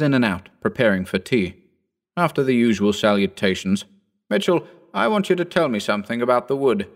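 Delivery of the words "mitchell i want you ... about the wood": put-on a lighter, higher young gentleman's voice; young Phillipson. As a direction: lift the voice into the eager young squire. Phillipson questions old Mitchell.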